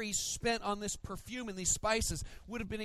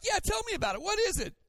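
much higher, louder sarcastic parroting; mocking echo; 7 dB louder, much faster than usual. Pastor mocking his own blunt reaction to the drawing, high and loud. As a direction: parrot her words with a sneer. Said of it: "And I'm like".

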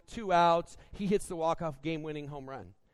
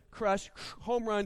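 ordinary delivery

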